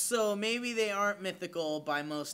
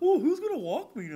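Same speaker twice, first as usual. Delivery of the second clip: very high, squeaky, loud pet-dog voice; 10 semitones higher, 5 dB louder than usual. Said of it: "It's a dog voice".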